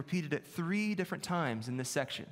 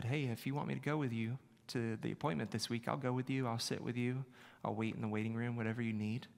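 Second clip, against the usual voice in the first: kind offer; 2 semitones lower, 4 dB quieter than usual. Retold or imitated. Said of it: "she very kindly said".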